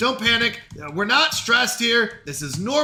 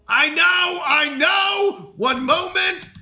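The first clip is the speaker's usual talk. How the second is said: flustered barista shouting back; exasperated call; 8 semitones higher, slower than usual. Acted. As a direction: fend off the impatient customers. Answering impatient customers.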